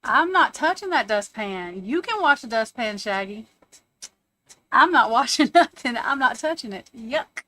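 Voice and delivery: flatly refuse, grossed out; loud, laughing, disgusted no; disgusted refusal. Real, not acted. Refusing to wash the dustpan.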